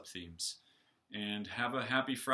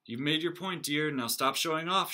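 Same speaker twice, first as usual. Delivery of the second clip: scolding; 4 semitones higher, 4 dB louder than usual. Acted. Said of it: "she scolded".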